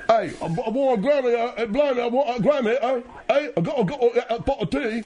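hammed-up Cockney "blimey, I want a Grammy"; impression of a singer. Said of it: "I'm just doing an Adele impression".

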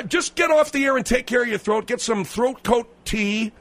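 exasperated radio host; exasperated order. Acted. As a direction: send him away impatiently. Host orders guest off the air.

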